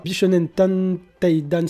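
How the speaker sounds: slow, drawn-out title; labored, stretched-out syllables; careful pronunciation. Real, not acted. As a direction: pick slowly through a tricky foreign name. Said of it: "c'est très compliqué à dire".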